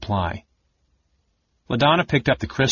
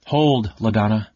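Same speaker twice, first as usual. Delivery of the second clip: mild voice. A narrator's reading. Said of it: "said a mild voice".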